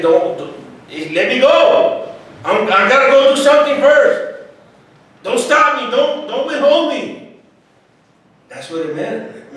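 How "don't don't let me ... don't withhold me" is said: higher, urgent voicing of Jesus; a lightly voiced Jesus asking not to be held; Jesus speaking. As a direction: play Jesus eager to get going. Preacher voices Jesus pleading urgently.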